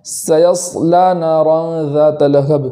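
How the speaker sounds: slow chanted recitation; tajweed recital; Quran recitation. Acted. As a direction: recite the verse slowly. Recites verse.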